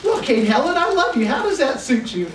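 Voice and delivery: lifted, bright mock proposal with love stressed; retold declaration of love. Husband answering wife's challenge, a hammed-up declaration. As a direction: play the shy husband finally saying it.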